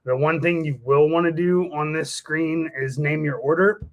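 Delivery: ordinary talk, nothing marked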